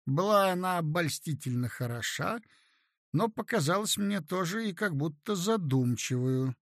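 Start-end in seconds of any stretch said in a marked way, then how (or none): none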